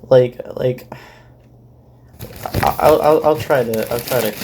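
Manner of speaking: talking through chips; crunching chips. Real, not acted. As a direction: mouth full of chips. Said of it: "my eating chips is too loud".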